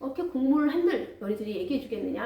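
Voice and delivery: bitter complaint. Acted. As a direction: scold them for betraying him. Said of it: "막 신세한탄을 하면서".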